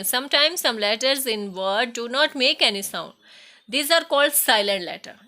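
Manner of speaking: very slow, word by word, loud and clear; slow dictation. Shown as a demonstration. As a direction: read each sentence out slowly for the class to copy. Teacher reads textbook definition. (धीमी, ज़ोरदार श्रुतलेख आवाज़)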